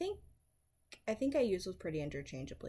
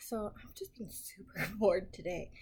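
whispering. Real, not acted. Starting her accent challenge video in a whisper. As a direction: keep it a hushed whisper so nobody wakes. Opening a quiet late-night video.

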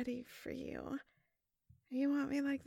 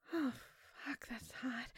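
whisper; 3 semitones lower, 5 dB quieter than usual. Acted. Aroused aside to lover.

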